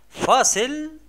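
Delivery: loud, drawn-out break announcement; announcer-style call. Real, not acted. Teacher sending young pupils to a break, loud drawn-out announcement. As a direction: call it out big and stretch the last word.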